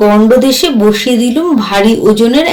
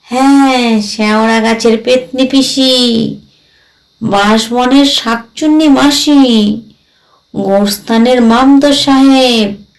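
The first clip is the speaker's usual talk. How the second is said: lightly voiced ghost, ominous. Ghost warns of his coming relatives, lightly voiced and ominous. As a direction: stretch each name as a gentle warning.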